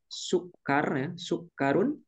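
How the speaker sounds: sukar with the kaf held double; doubled kaf. Shown as a demonstration. Teacher showing students the doubled kaf. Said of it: "Pakai tasdid ya kafnya".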